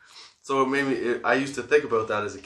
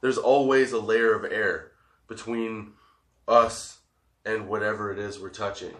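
stoned. Real, not acted. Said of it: "I'm really stoned".

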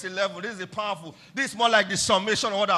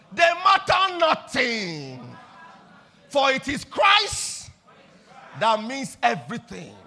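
chanted creed, louder; congregation-led declaration; 4 dB louder than usual. Shown as a demonstration. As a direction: lead the church line by line.

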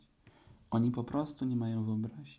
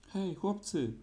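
shouting; 8 semitones higher, much slower than usual. Acted. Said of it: "krzyczał Królik".

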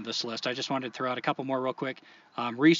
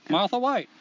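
put-on Maine accent; 6 semitones higher, 4 dB louder than usual. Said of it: "That's Maine?".

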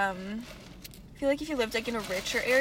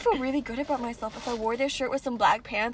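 mock articulate; 4 dB louder than usual. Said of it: "that's not what we say".

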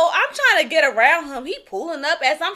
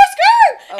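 very high loud skirt; tyre screech imitation; 8 dB louder than usual. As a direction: squeal it like brakes. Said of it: "until he went skirt".

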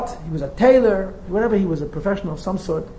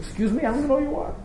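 brusque rich man; 7 semitones higher, 4 dB quieter, faster than usual. Retold or imitated. Rich man brushes off stranger.

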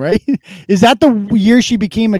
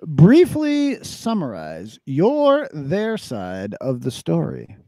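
slow rumbling mountain voice; Tom Mountain voice; 4 semitones lower, 3 dB quieter, slower than usual. Pretend. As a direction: read it like a slow big giant. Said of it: "you read the questions in Tom Mountain".

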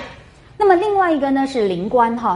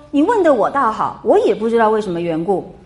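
cold sneer. Acted. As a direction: read it with a mild cold laugh. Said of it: "林黛玉就冷笑说". (带点冷笑地读)

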